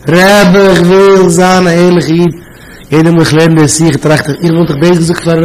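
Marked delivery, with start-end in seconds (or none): 0.1-2.3 drawn-out, singsong mock wail; imitated tearful plea. Student begging the Rebbe, imitated tearful plea. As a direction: plead slowly, lightly imitating weeping. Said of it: "mit angefangen weinen".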